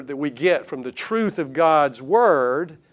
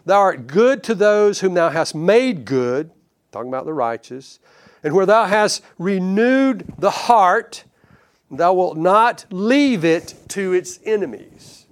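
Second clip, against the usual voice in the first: emphatic preaching; 3 semitones higher, 4 dB louder than usual. Retold or imitated. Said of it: "He says".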